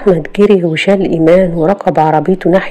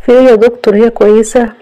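anxious asking; 5 semitones higher, 5 dB louder, faster than usual. A narrator's reading. Anxious husband questions the doctor.

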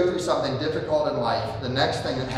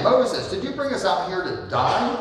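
whiny complaint; 6 semitones higher than usual. Retold or imitated. Voicing the complaining Israelites.

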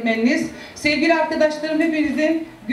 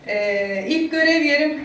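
trembling voice; slower than usual. Real, not acted. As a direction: voice shaking with emotion. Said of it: "Sesim titriyor".

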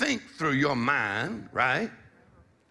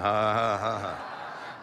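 practice laugh; 5 semitones lower, much slower than usual. Shown as a demonstration. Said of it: "Just practice laughing".

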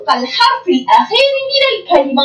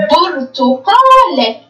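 slow drawn reading; much slower than usual. Shown as a demonstration. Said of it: "أين التنوين بالكسرة؟".

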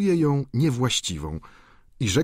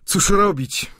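exclaiming; 12 semitones higher, 5 dB louder, slower than usual. A narrator's reading. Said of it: "zawołał Eugeniusz".

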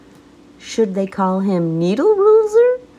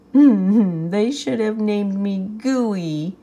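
mild sigh; slower than usual. Acted. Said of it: "he sighed".

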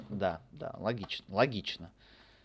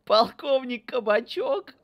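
mock-grand name; 13 dB louder, slower than usual. Mocking the colonel's name.

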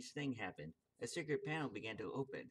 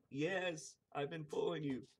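a touch higher, shy little man; shy squeaky voice; 4 semitones higher than usual. Acted. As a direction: admit it shyly, slightly squeaky. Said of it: "in a shy, squeaky voice".

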